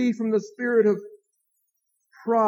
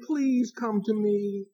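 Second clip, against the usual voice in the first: timid plea; 5 dB quieter, slower than usual. Retold or imitated. Jesus imagined pleading timidly.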